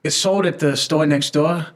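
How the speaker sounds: lightly put-on New York accent; a hint of New York in the vowels. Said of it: "do you wanna do it in a New York accent".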